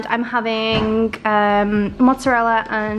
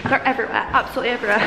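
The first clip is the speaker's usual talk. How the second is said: laughing; much faster than usual. Real, not acted. Laughing during soldier hunt.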